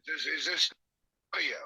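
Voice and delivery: phone speaker. Real, not acted. Caller heard over phone speaker.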